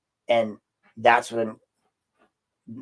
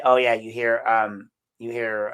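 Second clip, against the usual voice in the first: usual speaking voice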